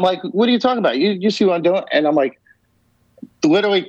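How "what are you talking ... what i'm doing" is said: high disbelieving question that settles down; incredulous protest. Retold or imitated. Retelling his protest to the ghost, high and incredulous. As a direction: sound baffled, defending yourself.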